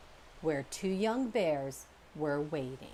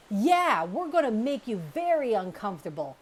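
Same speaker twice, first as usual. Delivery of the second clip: echoing threat; 4 semitones higher, 7 dB louder than usual. Acted. Brother echoes the threat.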